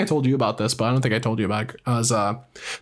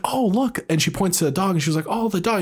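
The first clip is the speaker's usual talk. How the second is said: put-on higher, dreamy old woman pointing at a photo; old mother pointing at the dog picture, lightly higher; vague old mother; 6 semitones higher than usual. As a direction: voice a forgetful mother, pitched up. Mother with dementia looking at photos.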